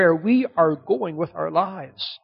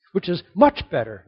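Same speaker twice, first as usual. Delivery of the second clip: "much" pushed up and louder; stress on much; 4 dB louder than usual. Shown as a demonstration. Preacher building Paul's phrase for the church, stressing "much". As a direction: lean on "much" in "Which is much better". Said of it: "No, that's not good enough".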